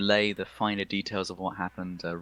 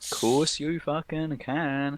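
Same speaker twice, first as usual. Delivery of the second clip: emphatic approval; 5 semitones higher, slower than usual. Real, not acted. GM emphatically grants song request.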